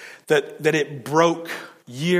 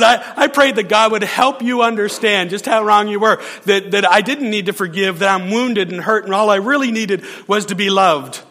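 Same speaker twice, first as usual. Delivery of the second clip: higher, louder mock indignation through laughter; indignant retelling; 5 semitones higher, 5 dB louder than usual. Pastor quoting the woman's prayer against him, higher amused indignation. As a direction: play her righteous complaint, half laughing. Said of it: "She says".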